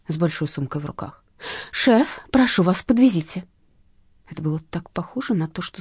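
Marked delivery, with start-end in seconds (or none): 1.7-3.4 urgent plea for a lift; pleading woman. Acted. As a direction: beg the driver to stop. (просящая молодая женщина)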